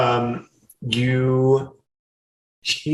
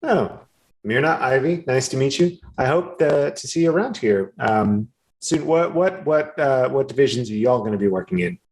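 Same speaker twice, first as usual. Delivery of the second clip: friendly, higher NPC voice, rambling and quick; chatty harvest worker Finepe; 4 semitones higher than usual. Acted. Harvest worker chatting up the newcomers, higher and rambling. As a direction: play a rambling, eager-to-please local who loses her words.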